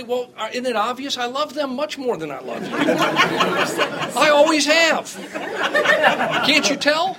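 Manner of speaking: high, loud, laughing teasing answer; mock sarcastic reply. Father answering his kids with loud laughing sarcasm. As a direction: tease them with a straight-faced joke that breaks into laughter. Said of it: "my response is always simply".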